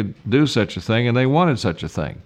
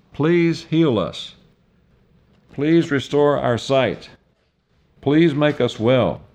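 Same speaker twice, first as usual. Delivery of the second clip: pleading; 2 semitones higher, slower than usual. Acted. Blind men begging Jesus.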